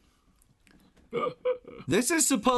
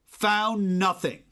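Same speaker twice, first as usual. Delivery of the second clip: reading the note aloud; 2 semitones higher, slower than usual. Retold or imitated. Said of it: "sound like Trump".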